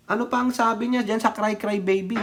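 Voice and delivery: ordinary talk, nothing marked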